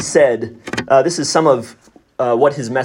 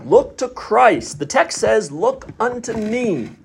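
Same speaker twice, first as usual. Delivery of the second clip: put-on higher, fervent plea in a broad Essex accent; 7 semitones higher than usual. Lay preacher pleading with his hearers, broad Essex preaching. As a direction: press each "look" home in broad Essex, slowing at the end. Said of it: "said he in broad Essex".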